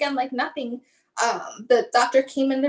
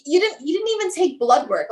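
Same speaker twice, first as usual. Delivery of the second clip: higher, indignant protest; defensive, retold; 4 semitones higher than usual. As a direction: argue back at the doctor, re-enacted. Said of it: "I became so defensive".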